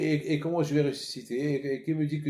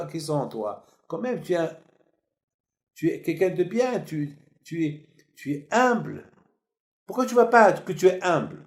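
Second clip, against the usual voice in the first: raised, pressing questions of rebuke; fervent rebuke; 4 semitones higher, 4 dB louder than usual. Retold or imitated. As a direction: urge him to see his worth. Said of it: "il a dit". (exhortation fervente, voix haute)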